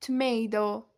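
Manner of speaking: tomato with flapped T, tuh-may-doh; teacher's American-style tuh-MAY-doh; native-like tomato. Shown as a demonstration.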